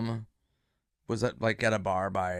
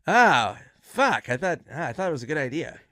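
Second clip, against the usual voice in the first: higher-pitched, mildly exasperated groan of disappointment; imitated letdown; 3 semitones higher, 3 dB louder than usual. Friend learns Reno plan was a joke, imitated dismay. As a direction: burst out on the first word, then ease off.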